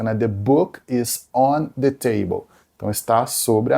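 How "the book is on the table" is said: careful classroom English; slow example read. Shown as a demonstration. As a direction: read it slowly for students. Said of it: "aquela frase clássica". (frase de exemplo lenta)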